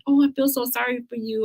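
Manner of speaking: high-pitched, syrupy sympathy; mock pity. Acquaintance looking at cancer patient, mock pity. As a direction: imitate someone oozing pity. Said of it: "with that voice".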